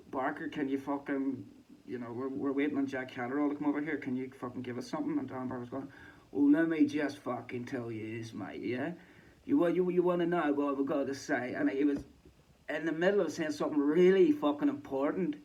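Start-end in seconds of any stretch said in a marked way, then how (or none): 0.1-5.2 impatient interrupter. Retold or imitated. Imitating Ben Davison interrupting. 6.3-15.3 mock insistent pundit. Imitating Darren Barker insisting.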